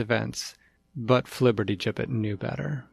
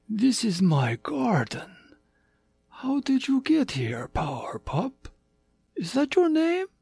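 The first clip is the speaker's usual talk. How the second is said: tiger king voice; 12 semitones higher than usual. Acted.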